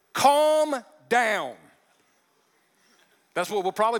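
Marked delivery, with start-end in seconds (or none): 0.1-1.6 raised, louder mock snap; mock snapped line. Husband yelling Calm down at his wife, mock snap. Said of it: "when you say, like, these two words".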